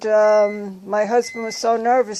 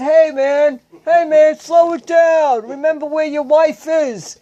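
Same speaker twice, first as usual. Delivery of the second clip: lightly voiced patient soothing the angry husband; patient telling the husband to calm down, high and loud; the other patient calming him; 5 semitones higher, 6 dB louder than usual. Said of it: "And he said".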